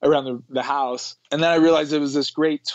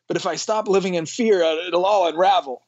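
higher, mildly worried mock voice; inner fear voice; 5 semitones higher than usual. Man voicing the mind's fear of letting go, mock worried. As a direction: imitate the anxious voice in one's head. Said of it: "that's that voice that you were talking about".

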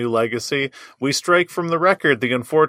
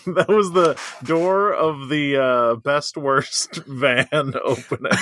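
announcer voice; slower than usual. Pretend. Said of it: "in my clear announcer voice".

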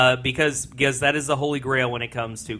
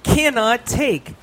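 laughing; 9 semitones higher, 5 dB louder than usual. Real, not acted. Introducing trailer with laugh.

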